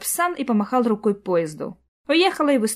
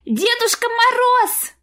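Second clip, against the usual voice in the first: put-on much higher, slow rapturous child's cry of «Дедушка Мороз!»; ecstatic little boy; 4 dB louder, slower than usual. A narrator's reading. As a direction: squeal it like a thrilled boy. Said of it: "захлёбывающийся от восторга мальчишеский голос".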